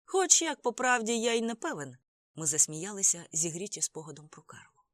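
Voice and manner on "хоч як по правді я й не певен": high, loud call over traffic; raised-voice, higher-pitched admission; shouted back. A narrator's reading. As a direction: throw it back loudly over the noise. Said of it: "крикнув він у відповідь".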